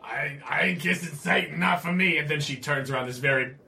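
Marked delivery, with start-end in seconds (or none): 0.0-2.2 elf lady voice. Retold or imitated. Bartender elf refusing, voiced.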